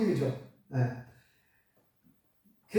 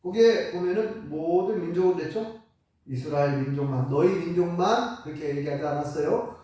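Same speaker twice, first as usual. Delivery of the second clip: ordinary talk, nothing marked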